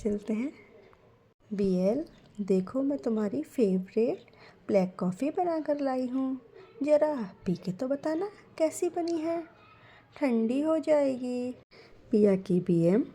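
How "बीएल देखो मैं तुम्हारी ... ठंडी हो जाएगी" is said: higher, affectionate coaxing; a mum offering coffee with love; lovingly. Acted. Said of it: "बड़े प्यार से". (बड़े प्यार से, थोड़ी ऊँची आवाज़ में)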